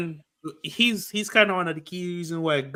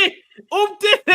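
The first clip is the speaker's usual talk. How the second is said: loud, high excited yell of the name; shouting; 13 semitones higher, 9 dB louder than usual. Real, not acted.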